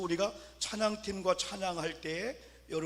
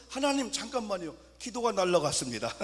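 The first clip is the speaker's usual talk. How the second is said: higher, louder flustered plea to God; panicked plea; 3 semitones higher, 5 dB louder than usual. Retold or imitated. Praying man loses his paper, panicked plea. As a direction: blurt it out in a rush of panic.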